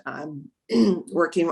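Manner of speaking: throat catching, slowed down; talking through a tickle in the throat; choking a little. Real, not acted. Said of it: "I'm choking a little".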